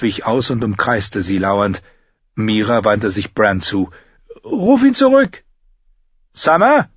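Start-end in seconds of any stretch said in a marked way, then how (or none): 4.4-5.4 high, loud command; urgent shout. Acted. Mira yells at Bran to call the wolf back, high and loud. 6.3-6.9 high, loud call; shouting. Acted. Bran shouts for his wolf Summer, high and loud. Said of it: "schrie Bran".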